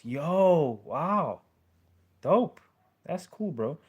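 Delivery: loud, high burst of hype; excited reaction. Real, not acted. Streamer hyping a chat message, loud excited cheer. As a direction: hype up the viewer's news.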